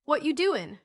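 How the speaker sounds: lively storybook cry of curiosity. A narrator's reading. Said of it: "cried Joel".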